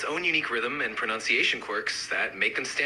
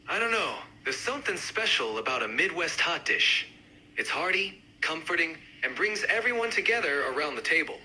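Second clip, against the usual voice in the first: lightly done Midwestern accent. Shown as a demonstration. Hot dish fan joining the debate, mild Midwest accent. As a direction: give it a hint of the Midwest. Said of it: "each accent, uh, represented by a speaker".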